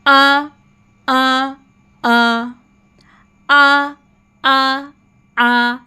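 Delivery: "आ" as a held, level long open vowel; zabar vowel demo. Shown as a demonstration. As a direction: model "आ" slowly, each one held and separate. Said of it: "ज़बर की sound क्या होती है". ("आ" को लंबा खींचकर, अलग-अलग बोलें)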